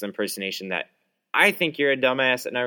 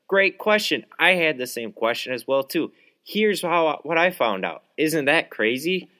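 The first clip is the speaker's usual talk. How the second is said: higher, bright-voiced pretend answer; mock cheerful reply; 6 semitones higher than usual. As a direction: play the gracious presenter welcoming the question. Imagined cheerful reply to polite question.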